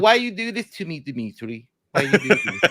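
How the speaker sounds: high, pleading dog voice, squeaking at the end; dog's pleading voice. Pretend. Big dog being lifted at the vet, high pleading voice. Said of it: "He's like".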